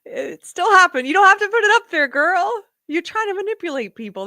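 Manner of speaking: high, loud mock-tearful voice; mocking a crying influencer's high voice; mocking imitation. Mocking a crying woman's words.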